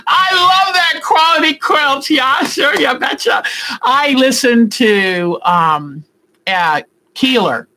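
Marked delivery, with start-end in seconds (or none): 0.1-3.4 hammed-up Minnesota accent, high and laughing. Shown as a demonstration. Vlogger hamming a Minnesota accent for viewers, laughing. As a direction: belt it out in an overdone Minnesota twang. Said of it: "you like the accent?".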